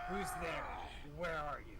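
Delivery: calling out. Acted. Character calls out.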